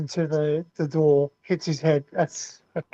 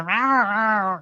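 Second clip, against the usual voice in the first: cat noise, lightly voiced; mock meowing; 3 semitones higher than usual. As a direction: imitate a cat meowing, half-hearted. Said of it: "It's just a".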